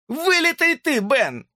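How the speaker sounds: very high falsetto tease; hamster's mocking jab. A narrator's reading. Hamster mocks Ben over the card, squeaky high taunt. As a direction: jeer at him in a squeaky boy voice. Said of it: "добавил он и заржал на свой манер".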